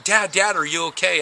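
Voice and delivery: mildly imitated frightened son; worried son. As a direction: shake him awake with your voice. Son shaking his dad.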